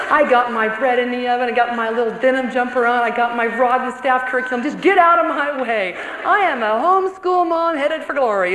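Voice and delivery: tongue-in-cheek boast; mock smug bravado. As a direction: ham up the proud homeschool mom. Mocking her own homeschool pride.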